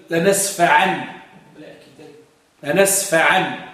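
slow recitation. Shown as a demonstration. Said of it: "باش يخرجوا قول الله عز وجل".

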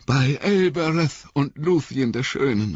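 high, strained invocation; last-strength cry. A narrator's reading. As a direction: call out with the last of your strength. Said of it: "rief Frodo mit letzter Kraft". (mit letzter Kraft gerufen)

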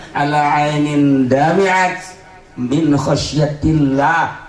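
slow solemn recitation; slow chanted Arabic; recited Arabic. Acted. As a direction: draw out the hadith words. Quoting hadith again.

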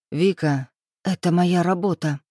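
ordinary delivery, nothing marked

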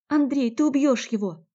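high, loud panicked shout; Natalya, terrified, screams at Andrey to let go; frightened cry. Acted. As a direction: scream at him to stop, scared. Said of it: "Не на шутку перепугалась Климова".

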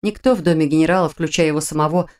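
usual speaking voice

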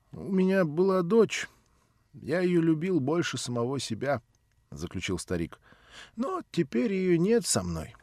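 a hint of a pleading old man; old man's plea. Old man begs Nelly to replace his daughter, lightly voiced.

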